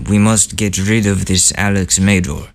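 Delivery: mock Putin with a light Russian accent; half-hearted Russian accent; bad Russian accent. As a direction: attempt a clumsy Russian accent. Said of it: "I can't do a Russian accent".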